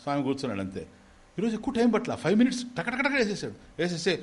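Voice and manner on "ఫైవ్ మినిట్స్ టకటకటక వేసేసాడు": ordinary talk, nothing marked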